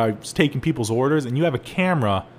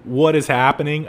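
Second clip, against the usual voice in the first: exasperated retort; 3 semitones higher, 5 dB louder than usual. Retold or imitated. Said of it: "I go".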